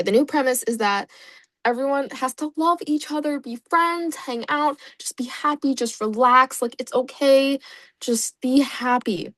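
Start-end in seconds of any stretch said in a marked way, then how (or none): 1.6-9.3 higher, sing-song mock sweetness; mock sweet cheer. Explaining the island's premise to friends, higher mock sweet sing-song. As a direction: coo it like a saccharine mascot.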